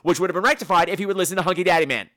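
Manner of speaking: mock fed-up rant; exasperated scolding. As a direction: tell off a complainer, fed up. Mock telling-off of complaining character.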